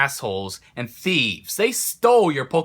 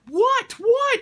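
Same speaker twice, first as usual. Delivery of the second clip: shocked mom. Retold or imitated. Mom reacts to the Blastoise.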